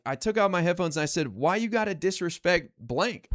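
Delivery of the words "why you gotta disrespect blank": street confrontation. Retold or imitated. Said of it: "I don't know why I said it like that".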